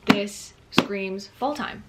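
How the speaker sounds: slow, each word stretched, "fall" lifted; slow, rising "fall"; drawn out emphasis. Shown as a demonstration. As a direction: savor "This screams fall time". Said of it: "This book just screams fall time to me".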